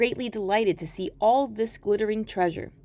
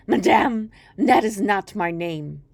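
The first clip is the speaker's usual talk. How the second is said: a lightly voiced mocking imp; gloating dwarf; 5 dB louder than usual. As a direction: savour the refusal. Dwarf rejects guesses.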